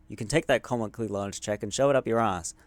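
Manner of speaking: smug, taunting brush-off; rude dismissal. Acted. Refusing the check with a smug sneer. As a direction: tell him where to shove it.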